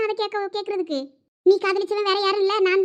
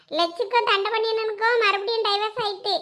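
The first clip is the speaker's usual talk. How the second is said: ordinary talk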